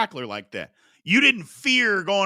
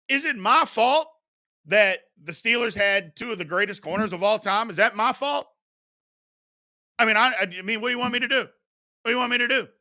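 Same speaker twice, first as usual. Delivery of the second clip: higher-pitched pleading protest; mock innocence; 4 semitones higher than usual. Fan answers accusation of Steelers bias, mock-innocent pleading. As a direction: plead helplessly, pitch lifted.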